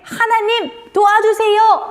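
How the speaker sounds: high, pleading call to God; demonstrated prayer call. Shown as a demonstration. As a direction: call out a simple prayer for children. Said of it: "라고 하나님께 기도하세요".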